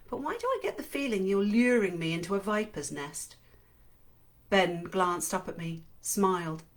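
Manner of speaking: steady first-person narration read aloud; story narration. A narrator's reading. Host reading a novel's opening chapter aloud, in narration voice.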